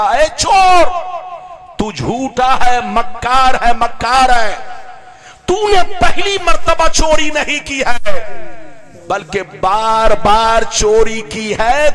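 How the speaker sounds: a ruler in wrath, scolding a thief in court; angry caliph. Retold or imitated. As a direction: thunder at the lying thief. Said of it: "غصے میں آئے".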